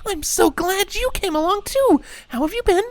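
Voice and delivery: very high, gushing mom voice; cheerful greeting. A narrator's reading. Windy welcomes Scootaloo along, cheerful. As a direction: greet her brightly, far above your own pitch. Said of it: "Windy greeted cheerfully".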